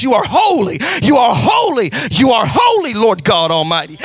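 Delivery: each holy said with the same weight, called out; triple emphasis. Shown as a demonstration. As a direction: hammer the word holy three times. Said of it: "emphasizing this to the highest possible degree".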